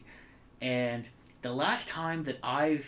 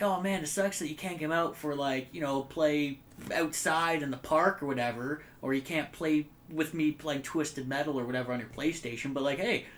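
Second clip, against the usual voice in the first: mock sympathy taunt. Gloating at grounded Renee over his PS1, mock pity giving way to laughter. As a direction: fake pity that breaks into a laugh at the end. Mocking friend who is grounded.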